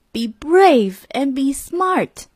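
the motto echoing in his head. A narrator's reading. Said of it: "he remembered his grandpa's secrets".

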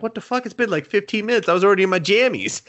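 high, quick-fire exasperated griping; hammed-up put-out whining; mock indignant complaint. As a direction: protest like someone dragged out of bed. Captain woken up, complains, retold.

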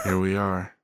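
smooth radio host voice. Real, not acted. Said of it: "you got your radio voice back on there".

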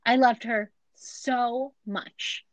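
slow, drawn-out mock sorrow; hammed-up heartbroken widower pleading innocence; imitating a man's slow tearful denial; mock grieving husband. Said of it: "And he goes".

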